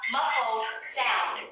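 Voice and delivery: "Muffled sound" very slow, each sound clear; pronunciation model. Shown as a demonstration. Teacher models "Muffled sound" for students to repeat. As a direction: stretch out "Muffled sound" for learners. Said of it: "các em đã phát âm cái từ này chưa".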